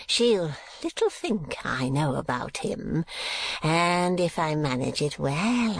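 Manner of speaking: lightly voiced scheming old miser. A narrator's reading. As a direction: talk to oneself, plotting smugly. Gride mutters plans alone.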